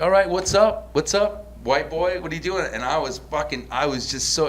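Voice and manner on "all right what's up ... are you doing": higher, louder mocking jeer; hammed-up catcalling taunt; taunting street vendor. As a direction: goad him like a street hustler. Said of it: "And they were like".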